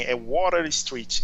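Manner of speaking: "Water" with the t flapped like a quick r, wó-rer, in Water Street; American Water. Retold or imitated. Friend teaching him his street name, "Water" said with a tapped r. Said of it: "Aí ele falou assim".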